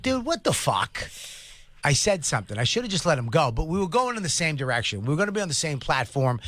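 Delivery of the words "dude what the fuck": indignant retort. Retold or imitated. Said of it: "I was like".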